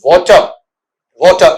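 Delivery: वाटर as "wo-chuh", rounded o, r dropped; corrected pronunciation. Shown as a demonstration. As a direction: repeat वाटर as "WO-chuh", no final r. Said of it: "इस तरीके से।".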